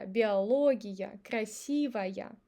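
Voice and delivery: Биология, красивая drawn out with clear ya endings; unreduced final Я. Shown as a demonstration. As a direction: slowly finish Биология and красивая on full ya. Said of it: "ya is pronounced as ya".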